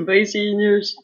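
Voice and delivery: slow with a giggle; cute giggly voice. Pretend. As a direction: giggle the goodbye sweetly. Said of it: "despedir com uma voz fofinha".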